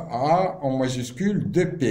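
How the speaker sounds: letter by letter, very slow; slow spelling. Shown as a demonstration. Teacher spelling an abbreviation for students, slow. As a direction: spell it out slowly for the notes. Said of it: "teacher spelling the abbreviation".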